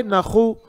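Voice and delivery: नखु with a scraped kh; wrong kh for qaf. Shown as a demonstration. Teacher repeats the faulty syllable, kh for qaf. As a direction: put kh where q belongs in नखु. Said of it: "wrong".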